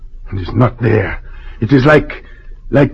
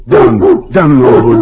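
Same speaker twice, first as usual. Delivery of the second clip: sharp command to dog. Acted. Governor ordering his dog Lobo down, sharp command.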